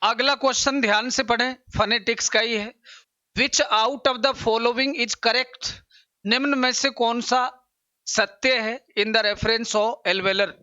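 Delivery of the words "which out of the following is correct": slow, deliberate reading aloud; exam question read. Acted. Teacher reading exam question to students, slow and deliberate.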